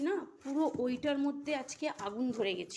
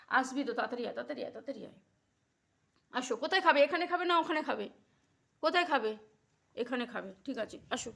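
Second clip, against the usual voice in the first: coaxing; 4 semitones higher, 8 dB louder than usual. Real, not acted. Coaxing Kutus to eat.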